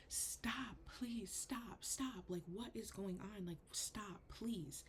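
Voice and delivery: high, hushed pleading; retold screamed plea. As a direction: beg in a strained, high half-voice. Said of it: "screaming at him".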